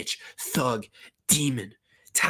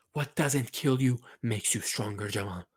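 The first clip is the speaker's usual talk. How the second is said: soft, intimate pep talk; dropped-down, earnest murmur; hushed encouragement; 3 semitones lower, 7 dB quieter than usual. Acted. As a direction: say it quietly, just to the player. Same line repeated as hushed plea.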